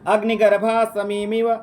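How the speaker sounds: slow, measured Sanskrit reading; stately, drawn-out question reading; formal recitation. Real, not acted. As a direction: read it out word by word, vowels held. Reads quiz question in Sanskrit.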